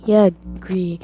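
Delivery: whispered quick agreement; secret agreement. Retold or imitated. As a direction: lean in and whisper your agreement. Club members agreeing in secret.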